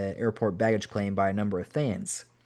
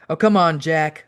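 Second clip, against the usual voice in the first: high, loud cheerful plea; playful raised-pitch cajoling; cheery coaxing; 5 semitones higher, 7 dB louder, slower than usual. A narrator's reading. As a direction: coax a friend cheerily. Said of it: "Owen cheerily answered back".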